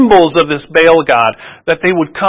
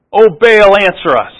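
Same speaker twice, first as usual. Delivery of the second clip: louder, higher plea to a silent god; crying out; 6 semitones higher, 4 dB louder than usual. Retold or imitated. Preacher voicing Baal's prophets, crying out loud. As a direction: call out to Baal like a desperate worshiper. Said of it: "they're crying out".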